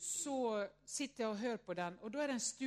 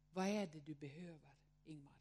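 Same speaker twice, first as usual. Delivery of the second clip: put-on lower, soft question to the child inside; tender self-talk; 5 semitones lower, 4 dB quieter than usual. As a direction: gently ask the child within what he needs. Priest speaks tenderly to inner child. (han frågar barnet inom sig lågt och ömt vad det behöver)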